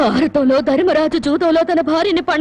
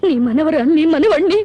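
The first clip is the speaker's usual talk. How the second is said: crying in despair. Acted. Wife despairing to grandmother.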